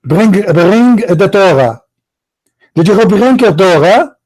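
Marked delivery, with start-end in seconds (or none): 0.0-1.8 slow insistent repeat. Real, not acted. Host drilling the point into Abdul, slow and insistent. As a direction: drag out "Bring, bring the Torah" slowly. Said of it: "Abdul, are you listening?".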